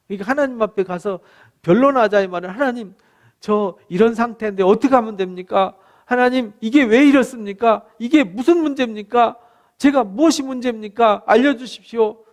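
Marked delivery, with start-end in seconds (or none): 2.5-12.2 raised, urgent pleading; crying out in prayer. Acted. Believer cries out to God for answers, urgent plea. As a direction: plead for answers, question upon question. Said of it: "이렇게 하나님 앞에서 부르짖어 기도하고".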